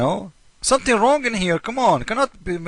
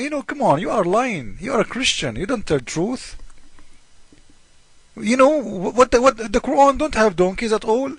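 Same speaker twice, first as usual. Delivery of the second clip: lightly voiced objector, higher and indignant; 4 semitones higher than usual. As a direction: play the scoffing opponent, a bit higher. Imagined Muslim objector argues back.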